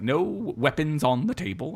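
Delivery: lightly voiced scolding mum, slow; a hint of a Scottish mother, drawn out; Merida's mother. Podcaster repeats the film mother's rule to co-host, lightly imitated scolding. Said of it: "She's like".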